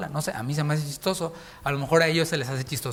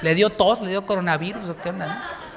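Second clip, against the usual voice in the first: laughing mock soldier; 4 semitones higher than usual. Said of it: "Todos van a decir".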